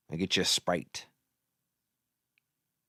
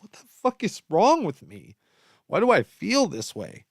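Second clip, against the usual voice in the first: exasperated self-quote; 8 semitones higher than usual. Retold or imitated. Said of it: "I wake up and I'm like".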